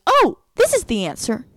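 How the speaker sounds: lightly voiced eager child; cute little girl. Little girl solving a riddle, lightly imitated cute voice. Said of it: "it's so cute the way she does it".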